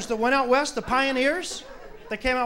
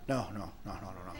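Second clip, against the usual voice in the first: fading nagging; 17 dB quieter than usual. Retold or imitated. Her endless lecture, voiced.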